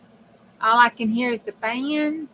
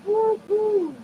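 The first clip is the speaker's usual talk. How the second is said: excited cheer; 12 semitones higher, 3 dB louder than usual. Real, not acted. Cheering again while crafting.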